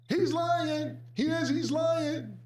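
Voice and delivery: high, hushed, urgent accusation; mock paranoid Dame. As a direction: hiss it up high like he's sure he's bugged. Dame accusing Cam again.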